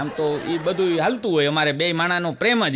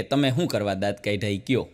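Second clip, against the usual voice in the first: wife demanding; 8 semitones lower, 4 dB quieter than usual. Retold or imitated. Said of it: "મને કહે કે".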